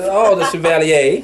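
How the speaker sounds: slow, drawn-out New Orleans Chevalier; playful attempt at a New Orleans accent; New Orleans style. Shown as a demonstration. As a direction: stretch it out like a New Orleans local. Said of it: "say it like you're New Orleans".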